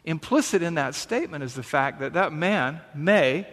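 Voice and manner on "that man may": "may" set off by pauses; "may" held apart for emphasis; stress on may. Shown as a demonstration. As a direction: lean on the word "may". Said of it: "emphasis on the word may".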